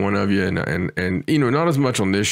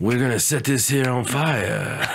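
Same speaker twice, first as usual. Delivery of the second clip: tough-guy hawk; 2 semitones higher than usual. Acted. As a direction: play the hawk as a hammed-up mobster boss. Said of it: "Is that how hawks talk?".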